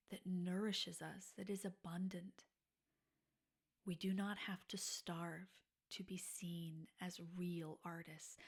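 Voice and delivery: slow, hushed, soothing encouragement. Acted. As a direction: ease your listeners into letting their armor down. Soft slow inspirational closing address.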